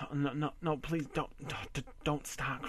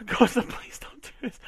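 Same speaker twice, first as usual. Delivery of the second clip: much higher and louder, breaking; desperate plea; 10 semitones higher, 6 dB louder than usual. Acted. Husband desperately begging his wife, high. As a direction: cry out the plea.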